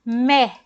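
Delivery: Mé with an open E, held; sounding out MÉ. Shown as a demonstration. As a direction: read the syllable Mé slowly. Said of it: "Sabe como que eu leio?".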